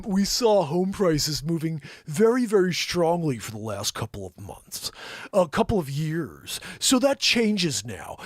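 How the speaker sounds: slow, lightly stuffy Fed chair voice; a hint of Powell, measured and slow; lightly done Powell; Powell impression. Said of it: "can we do a Powell impression".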